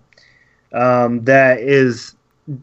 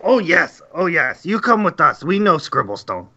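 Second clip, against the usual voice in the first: goblin voice; 3 semitones higher than usual. Acted. Goblin eagerly agrees.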